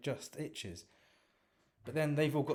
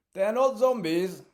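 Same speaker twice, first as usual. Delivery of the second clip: prim Reginald; 11 semitones higher, 13 dB louder, slower than usual. Acted. Reginald corrects from the van.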